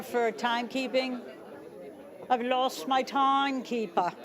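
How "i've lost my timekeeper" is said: badly faked English accent. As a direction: put on a hammed-up English accent, failing miserably. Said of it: "That's my best English accent".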